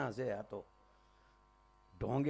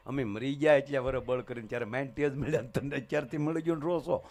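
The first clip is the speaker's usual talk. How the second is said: ordinary talk, nothing marked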